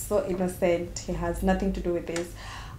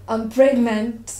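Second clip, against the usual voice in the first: louder, drawn-out disbelief; stunned disbelief; 3 semitones higher, 8 dB louder, slower than usual. Acted. Woman telling of her unexpected pregnancy, stunned. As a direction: stretch it out as the shock lands.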